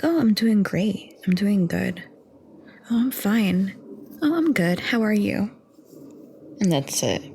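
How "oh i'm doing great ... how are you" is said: higher, put-on cheery reply; fake cheerful. Answering how are you, a higher put-on cheery reply. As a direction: sell the fake "I'm fine". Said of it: "And I'm like".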